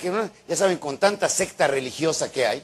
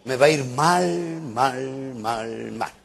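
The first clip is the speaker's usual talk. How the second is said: forecast doom, each repeat fading further down; slow, fading chant of misfortune; mock gloomy self-talk; 3 semitones lower, much slower than usual. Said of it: "digan, Presiento que hoy".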